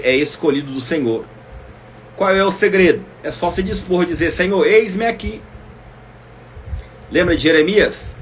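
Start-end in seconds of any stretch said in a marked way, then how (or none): 4.3-5.4 eager answer. Acted. Preacher voicing the answer to God.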